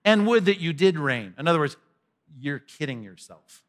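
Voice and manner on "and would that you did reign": louder ironic wish; pointed sarcasm; sarcastic. Acted. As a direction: push the wish out with irony. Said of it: "because it's sarcastic".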